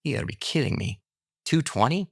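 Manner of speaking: rising high on two twenty, stunned; can't believe the match; astonished retold reaction to the pastor; amazed disbelief. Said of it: "And I was like".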